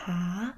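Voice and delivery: "하늘" with a very soft H. Shown as a demonstration. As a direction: begin "하늘" on a very soft H. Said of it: "but very soft".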